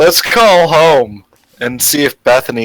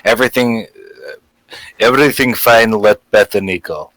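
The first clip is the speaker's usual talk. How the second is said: put-on Russian accent. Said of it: "as Dimitri saying".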